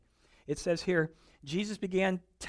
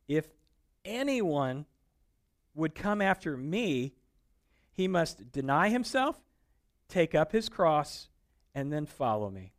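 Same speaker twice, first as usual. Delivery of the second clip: slow, deliberate scripture reading, louder; 3 dB louder, slower than usual. Acted. Preacher reading Jesus' words to the congregation, slow and solemn. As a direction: weigh each phrase of the verse.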